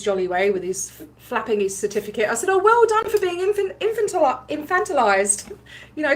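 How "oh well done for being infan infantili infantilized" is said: high, mock-sweet sarcastic praise; snarky. Vlogger mocking a Scientologist's certificate, sarcastic. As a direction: fake congratulations, dripping with snark. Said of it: "snarky with him".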